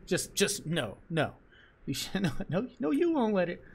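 laughing protest. Real, not acted. Laughing protest at game character.

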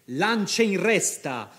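captain ordering the charge with vigour; vigorous shout. Acted. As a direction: charge them forward. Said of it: "gridò Marco con vigore".

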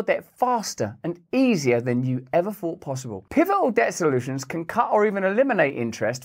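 upbeat sponsor read, pitching the product. Acted. Host reading a debt relief ad to viewers, upbeat pitch. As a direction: sell it like a radio spot.

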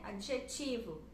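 adjetivo with the stress on TI; Portuguese adjetivo, adje-TI-vo. Shown as a demonstration. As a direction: say adjetivo leaning on the TI syllable. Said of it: "a sílaba tônica".

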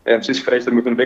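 talking through a face mask; muffled by a face mask. Real, not acted. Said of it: "que eu tô de máscara aqui".

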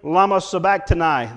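mildly voiced cry from the cross; loud cry. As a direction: call it out in a preacher's retelling. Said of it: "cried out with a loud voice".

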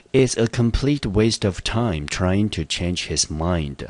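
slow, deliberate reading; teacher reads the example sentence slowly to the class. Shown as a demonstration. 老师慢速朗读例句. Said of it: "teacher reads example sentence".

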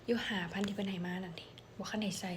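breathy, voiceless confiding; hushed whisper. Retold or imitated. A friend quietly admits she has hidden money, whispering. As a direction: whisper it like a secret.

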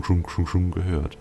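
normal talking voice

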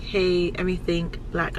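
put-on low, soft, laid-back cool-girl greeting; cool sunglasses greeting. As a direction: play it cool in shades at the door. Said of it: "walk up to the door like this".

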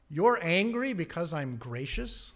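God pressing the point with a rising question; God challenging an angry prophet, incredulous rise; God questioning Jonah. Acted. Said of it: "God's question".

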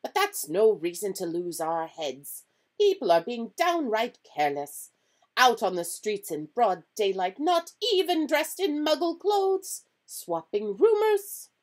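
loud, high, indignant scolding; testy professor building to high outrage; irritable. A narrator's reading. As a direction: scold irritably, rising as you go. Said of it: "said Professor McGonagall irritably".

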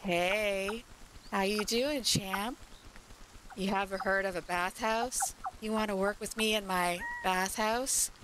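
a lightly voiced sly recruiter sidling up; smooth it over like a shady boss making an offer; hint of a slimy con artist voice; sleazy bathhouse pitch. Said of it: "sidling up to you and being like".

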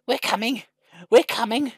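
high-pitched rescuing call. A narrator's reading. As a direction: call ahead to someone in trouble. Rescuers calling out in story.

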